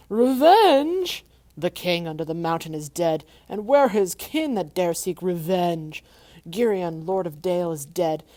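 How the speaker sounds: loud, booming gloating dragon. Acted. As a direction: boast like a mighty old dragon. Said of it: "he gloated".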